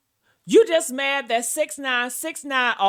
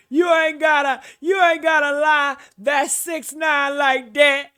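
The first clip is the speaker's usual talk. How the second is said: mocking imitation. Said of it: "that's what she just kept on saying".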